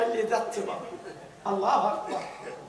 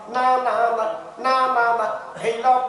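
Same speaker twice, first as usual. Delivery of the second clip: louder repeated no, no; insistent refusal; 4 dB louder than usual. Acted. Box owner insisting the devotee keep it, loud. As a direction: press it on him firmly.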